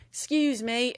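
imitated huge country accent. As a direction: lightly mimic a country boy's accent. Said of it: "He had such a huge country accent".

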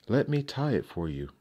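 high, falsely sweet offer; sly grin. Acted. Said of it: "grinned the queen".

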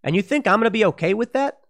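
high, cruel fake laughter; sneering mock laugh then an indignant retort. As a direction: cackle as if mocking a death. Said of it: "the L A Times laughs".

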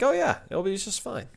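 high-pitched cheery reassurance; mock upbeat. Recapper mimics Bates and Anna's upbeat ending, mock cheerful. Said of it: "on an upbeat with Bates and Anna".

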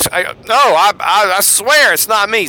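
a touch of panic, insisting it's not him; mock earnest oath, stumbling over the I; frantic swearing denial. Peter swears an oath he doesn't know Jesus, mildly frantic. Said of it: "swearing an oath".

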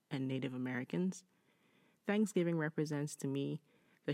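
measured read-aloud voice, lifting the start of each sentence; deliberate, well-paced reading of a written story. Acted. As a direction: read the letter out clearly, phrase by phrase. Reads listener's story.

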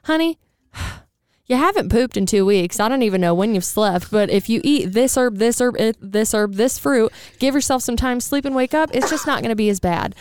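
imitating a tender, knowing healer; soothing a late, frazzled friend, lightly played; mock earnest advice. Friend hearing hard truths, half-hammed caring tone. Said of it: "I grabbed her shoulder and I said".

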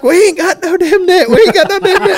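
high exasperated buddy voice; buddy's reply. Retold or imitated. Friend telling the angler there's no net, high exasperated. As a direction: throw it back at him, no net here. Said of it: "And he's like".

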